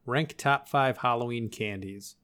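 slow, even robot read. Acted. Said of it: "Robot voice".

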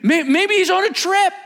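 high, laughing jibe; laughing mockery. Elijah mocking prophets, laughing high. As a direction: tease them while laughing.

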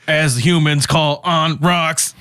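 slow, stilted mock robot; an alien machine explaining human terms; each word set apart mechanically. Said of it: "he, like, roboted it".

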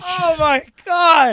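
stretched-out high squeal of disbelief; shocked high shriek. Real, not acted. Friend shrieks at the awkward massage story.

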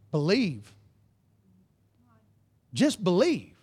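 soft, low and unhurried; hushed answer. Retold or imitated. Preacher gives Paul and Silas's answer to the congregation, soft and low. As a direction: let the simple answer land quietly.

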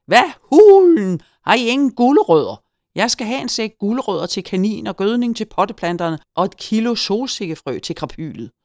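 indignant high-pitched holler; loud shouting. A narrator's reading. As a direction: bellow demands across a crowded store. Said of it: "hørte jeg Hyggen råbe højt".

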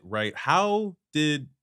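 normal talking voice

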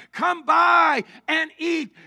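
slow, loud southeast Missouri call; southeast Missouri holler. Acted. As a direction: call it out like a country vendor. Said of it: "southeast Missouri vernacular".

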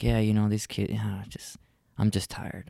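fading to a tired whisper; tired wife. Retold or imitated. Wife too tired after shower, fading whisper. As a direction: sigh it out, drained. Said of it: "And she's like".

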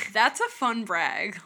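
slow, dry sarcastic remark. Retold or imitated. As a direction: drawl it out, unimpressed. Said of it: "I was like".

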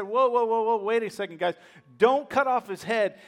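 emphatic retold intervention; urgent halting. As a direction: rein in the men with quick repeated commands. Acts out David halting his men.

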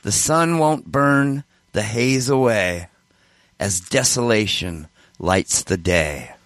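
slow, solemn recitation; reciting song lyrics. Real, not acted. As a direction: read each line slowly and gravely. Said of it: "I wrote a song once".

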